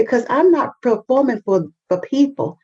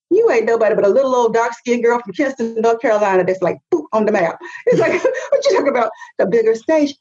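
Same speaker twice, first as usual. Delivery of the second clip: mocking naysayers; much faster than usual. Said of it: "The response would have always been".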